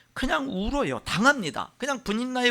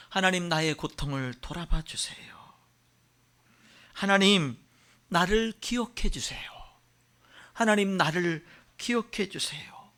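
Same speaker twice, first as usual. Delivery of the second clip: pleading prayer. Acted. Preacher voices Hannah's prayer. (간절하고 조용한 기도)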